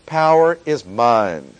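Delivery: slow, weighty reading landing on "mine"; "mine" drawn out with a firm fall; stress on MINE. Shown as a demonstration. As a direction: give "mine" deliberate emphasis. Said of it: "with the proper emphasis".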